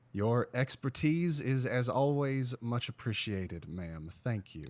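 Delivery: fading, toothy sarcastic politeness. Acted. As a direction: say it through a fake smile. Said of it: "flash a big toothy smile".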